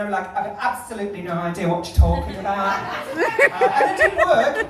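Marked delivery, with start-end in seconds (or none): 0.4-2.8 mock British accent, slightly lower; put-on British accent. Brushing off fellow Australians, put-on British accent. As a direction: play at sounding British. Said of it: "I put on an accent".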